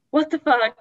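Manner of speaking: imitated burst of shocked dismay; retold shock. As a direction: act out a mother's stunned outburst. Mom's shock, acted in retelling.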